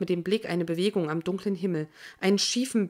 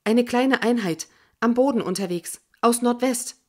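higher, louder, distant radio woman; 4 semitones higher, 4 dB louder than usual. Acted. Radio woman reports a unit from the northwest, crisp radio report. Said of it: "eine Frauenstimme".

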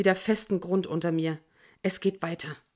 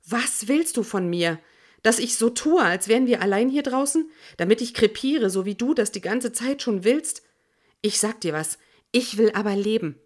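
angry outburst; 3 semitones higher, 3 dB louder than usual. Acted. Quarrel with Jorge.

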